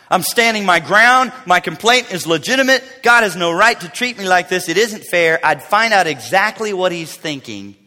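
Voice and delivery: insistent, mildly indignant protest; defiant complainer standing firm; arrogant. Acted. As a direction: press each grievance firmly. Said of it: "notice the arrogant attitude here".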